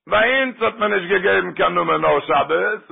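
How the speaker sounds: retold ruling, words stretched out. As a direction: draw out the rabbi's answer, falling toward the end. Rabbi's firm refusal by telephone.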